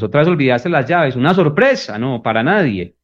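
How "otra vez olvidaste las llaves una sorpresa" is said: higher, mocking fake surprise; sarcastic jab at a partner who forgot the keys. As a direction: rub in the mistake with irony. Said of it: "decirlo sarcásticamente".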